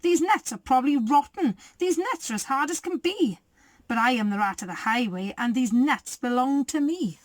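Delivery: mild mock snarl, lightly voiced; snarling rat. The rat snatches the nuts with a mild snarl. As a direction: sneer it like a greedy robber.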